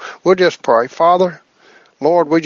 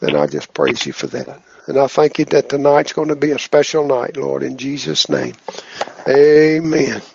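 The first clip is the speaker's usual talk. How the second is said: prayer. Acted. Leads group prayer.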